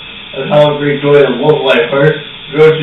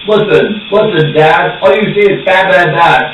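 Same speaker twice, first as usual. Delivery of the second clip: put-on child arguing; 4 semitones higher, 4 dB louder than usual.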